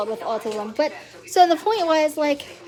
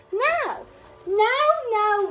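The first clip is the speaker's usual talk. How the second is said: indignant no; 8 semitones higher, 4 dB louder, much slower than usual. Real, not acted. Ranting about rude strangers.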